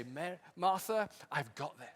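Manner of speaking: calm her like a close friend; Jesus quietly reassuring Martha; tender reassurance. Acted. Jesus comforting grieving Martha.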